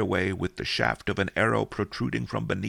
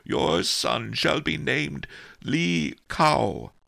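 solemn abbot; 6 semitones higher, much slower than usual. Acted. Abbot solemnly naming child.

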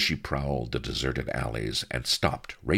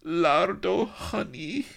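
coaxing maiden; slower than usual. Acted. Consort coaxing viceroy.

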